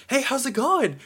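loud, high, bubbly greeting; excited, enthusiastic. Acted. Greeting a homeowner at the door, excited and enthusiastic. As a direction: burst out with an eager hello. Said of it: "really excited and enthusiastic".

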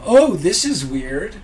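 mock muttering to myself. Alone in public, talking to myself: slow puzzled aside. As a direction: talk to yourself, weirded out. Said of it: "I'm just talking to myself".

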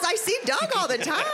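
laughing quote. Retold or imitated. Coworker mentioning her husband, high laughing voice.

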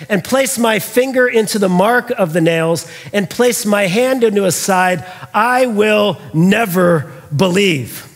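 firm, measured vow with deliberate gaps; slow down and weigh each word of the refusal; emphatic refusal. Retold or imitated. Doubting Thomas to the disciples, emphatic. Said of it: "do you notice how emphatic he is".

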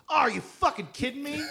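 high laughing mock outrage; Marc Maron's disbelief. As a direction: play it as incredulous, cracking up. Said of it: "Mark goes".

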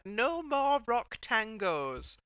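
slow, firm declaration; firm decree. Retold or imitated. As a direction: lay down the law, slowly. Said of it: "finally the pros have said".

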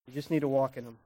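quiet echo of the last line; soft repeat. Shown as a demonstration. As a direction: let the line sink in gently. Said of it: "repeated after plain take".

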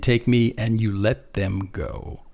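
very slow, measured order with no bargaining; quiet command. Retold or imitated. Jesus giving the soldiers terms, slow quiet order. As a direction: state the terms, don't plead. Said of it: "he's not making a deal".

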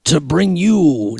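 slow hyped ring announcer; wrestling announcer. Acted. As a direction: stretch it like a wrestling promo. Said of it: "like a pro wrestling thing".

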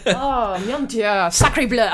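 hammed-up French exclamation; mock French dismay; French accent. Comic giving in after slipping from German, French accent. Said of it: "you're going French again".

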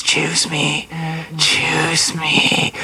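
a hint of a lovesick girl; mock pleading Charlie. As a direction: softly beg him to pick her. Charlie's plea retold.

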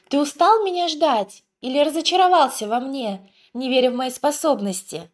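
put-on high, gentle lizard girl voice; tender little voice. A narrator's reading. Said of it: "Нежный голосок". (нежный голосок)

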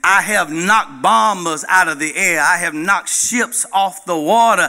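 a captain's proud angry rant; mad captain. Acted. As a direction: bluster your record at him. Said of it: "the captain is now mad".

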